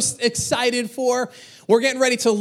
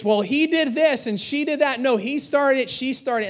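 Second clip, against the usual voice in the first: put-on higher voice of blaming kids, only mildly yelled; mock kids' yelling; 5 semitones higher than usual. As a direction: imitate children tattling on each other. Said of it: "turning their yells at me".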